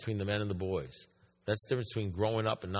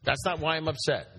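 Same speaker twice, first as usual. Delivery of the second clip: high, louder questioning of the claim; incredulous echo; 6 semitones higher, 3 dB louder than usual. Retold or imitated. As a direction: echo it back in raised-pitch disbelief. Retold back-and-forth, disbelieving reply.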